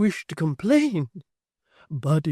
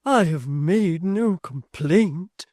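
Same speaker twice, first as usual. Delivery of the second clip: sobbing; 5 semitones higher, 9 dB louder, much slower than usual. A narrator's reading. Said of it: "sobbed Miss Tox".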